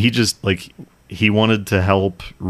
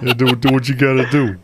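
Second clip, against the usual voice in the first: actor impression; 6 semitones higher, 4 dB louder, faster than usual. Mocking the actor's line.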